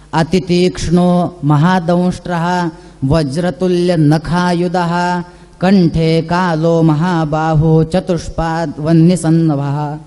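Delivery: slow, low chanted recitation of the shloka; Sanskrit verse recitation. Acted. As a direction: intone the verse slowly and steadily. (संथ, खालच्या सुरात श्लोक पठण)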